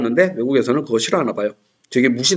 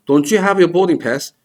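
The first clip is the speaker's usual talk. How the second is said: slow demo; 3 semitones higher, much slower than usual. Shown as a demonstration. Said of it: "이것만 들으시면 돼요".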